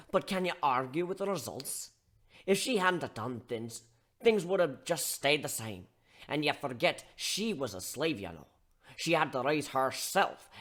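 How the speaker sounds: scolding bartender. Acted. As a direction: tear into him like a fed-up mentor. Steelhorn lecture continues.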